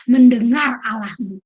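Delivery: a sudden loud shout on the last words; preaching shout. Real, not acted. Preacher to congregation, on God's power, shouting out.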